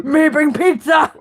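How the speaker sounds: caveman voice. Pretend. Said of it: "the caveman's not gonna know".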